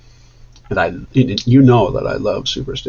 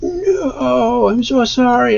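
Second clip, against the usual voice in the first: higher, lightly voiced sorry plea; apologetic bandmate; 13 semitones higher, much slower than usual. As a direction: play the guilty musician apologizing. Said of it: "he was like".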